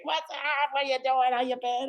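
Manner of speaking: high, bouncy dude-bro hello; bro greeting. Retold or imitated. Greeting old college buddies at the station, mock bro voice.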